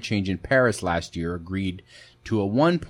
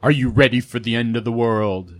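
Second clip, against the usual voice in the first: mad scientist; 5 dB louder than usual. Pretend. Doom announcement continues.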